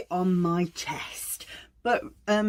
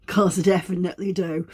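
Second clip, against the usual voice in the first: laughing; 4 dB louder, faster than usual. Real, not acted. Joking she uses it herself.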